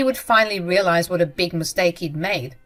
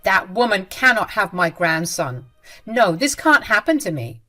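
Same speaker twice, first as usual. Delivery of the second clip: louder, bitter denial; mother-in-law rejecting the daughter-in-law, angry and louder; angry refusal; 5 dB louder than usual. Acted. Jenny furious about grandson.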